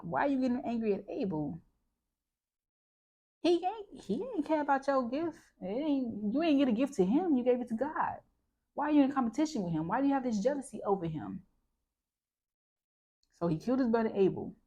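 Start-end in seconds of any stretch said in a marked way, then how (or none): 0.0-11.4 pitched up much higher, rattling fast through the questions; incredulous scolding. Retold or imitated. Vlogger talking straight at Cain, indignant and high-pitched. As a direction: scold him like you can't believe it. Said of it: "in my opinion, is like".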